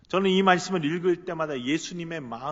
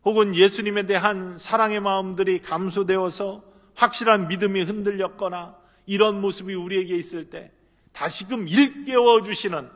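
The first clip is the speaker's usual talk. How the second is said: preaching at full force; 3 semitones higher, 7 dB louder than usual. Acted. Pastor exhorting the congregation, fervent louder preaching. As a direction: stir the congregation awake.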